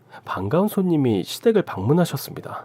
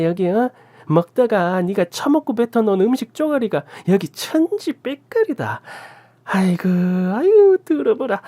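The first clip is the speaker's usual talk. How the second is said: furious scolding; 9 semitones higher than usual. A narrator's reading. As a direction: rant and shame them for everyone to hear. Aunt keeps scolding the couple.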